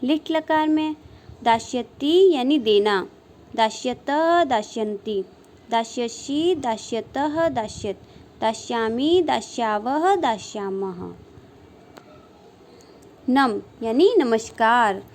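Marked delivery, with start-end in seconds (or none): 0.0-11.1 sing-song drill reciting verb forms; rhythmic paradigm recitation. Shown as a demonstration. Sanskrit teacher drilling students on verb forms, rhythmic sing-song recitation. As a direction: chant each form in sets of three, rising then falling.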